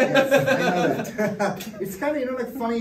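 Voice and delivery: amused chuckle while answering; real laugh breaking into the reply. Real, not acted. Laughing about the data pronunciation.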